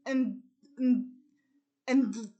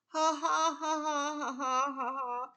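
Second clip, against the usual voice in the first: spelled-out mock laugh; faster than usual. Lenny mocking his brother, a half-hearted read-out laugh. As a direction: read out ha ha rather than truly laughing. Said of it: "Lenny laughs and says".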